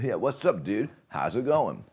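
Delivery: lightly voiced SoCal surfer dude; laid-back SoCal dude, lightly done; SoCal accent. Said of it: "more SoCal".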